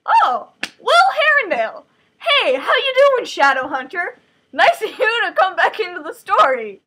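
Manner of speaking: thrilled fan welcoming him back; excited fangirl. Real, not acted. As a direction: squeal hello to a favourite character. Reader greets favourite character.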